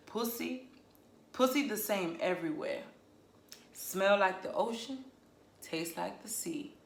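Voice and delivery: a light attempt at a Southern US accent. Shown as a demonstration. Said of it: "if you do it in a southern accent".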